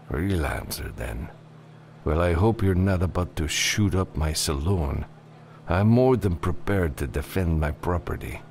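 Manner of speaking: lightly voiced barkeep giving a warning; wary saloon bartender. Bartender warning a freelancer about his saloon, lightly wary. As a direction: warn him as the barkeep, evenly.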